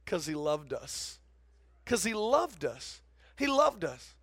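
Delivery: tender hush after a shout; hushed, slow. Acted. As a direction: drop to a slow, soft near-hush.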